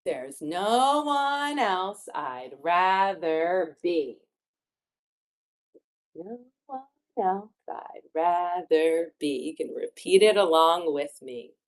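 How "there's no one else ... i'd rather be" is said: slow, deliberate picture-book reading; reading to children. Acted. Teacher reads a line for children to repeat, slow. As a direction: stretch the key words for young listeners.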